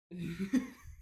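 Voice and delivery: brief real laugh; short laugh. Real, not acted. Host moving on from politics rant, brief laugh.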